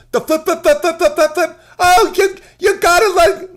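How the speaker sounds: silly voice, very high and loud; high-pitched comic impression; Bill Burr. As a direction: squawk it out in a silly falsetto. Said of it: "This is Bill Burr's silly voice".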